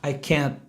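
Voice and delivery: soft, low "can't" with no air after t; tongue to the t of "can't" and hold it; blocked final t. Shown as a demonstration. Teacher demonstrating, "can't" with the air blocked. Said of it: "mas não deixa o ar passar".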